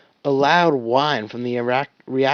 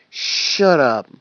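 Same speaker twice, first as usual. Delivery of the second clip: sharp; 6 dB louder than usual. Acted. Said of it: "Wash said sharply".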